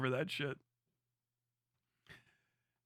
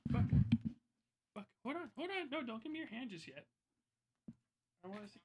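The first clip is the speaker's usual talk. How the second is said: talking to a dog. Real, not acted. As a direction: coax the dog gently. Coaxing his dog on stream.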